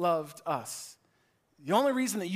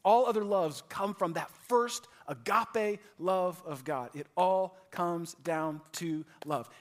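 usual speaking voice

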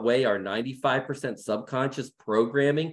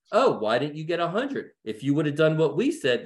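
lightly voiced faultfinding parents, pitched up; mock critical parent; 3 semitones higher than usual. Parents respond to a ninety-three on a test, lightly imitated reproach. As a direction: imitate a parent picking at a child. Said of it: "this is my parents talking".

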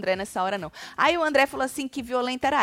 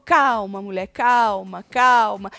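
loud, drawn-out imitated "calm down"; acted-out urging to settle down; retold calming; 6 dB louder, much slower than usual. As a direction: slowly insist on calm, a bit forceful. Imitates friend soothing her.

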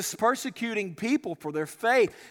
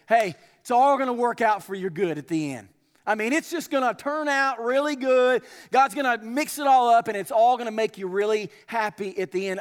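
mock cheery comfort. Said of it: "come up to those people and say".

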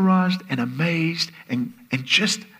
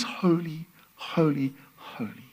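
fading to a hushed whisper; reverent fade; 6 dB quieter, slower than usual. Real, not acted. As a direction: let holy drop into a whisper.

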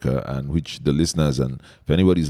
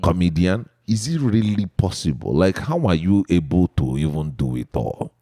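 put-on emphatic Igbo-accented questioning. Host asks comedian how he manages it all, Igbo accent. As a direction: quiz him in a playful Igbo accent. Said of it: "I tend to use the Igbo accent".

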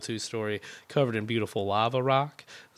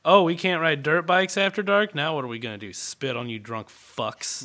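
mock bratty kid; 4 semitones higher, 3 dB louder than usual. Kids' imagined complaint voiced.

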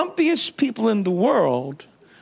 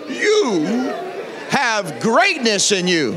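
a sassy take with a laugh on You; with an attitude; 2 semitones higher, slower than usual. Shown as a demonstration. Pastor coaxing the church to say it with attitude, sassy. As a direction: toss it off with swagger, laughing. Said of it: "Say it with an attitude".

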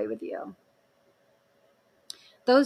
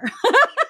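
high burst of laughter; 13 semitones higher, 5 dB louder than usual. Real, not acted. Laughing at own story.

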